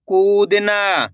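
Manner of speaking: very slow blending. Shown as a demonstration. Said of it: "मेरे साथ साथ इनको रिपीट करना है".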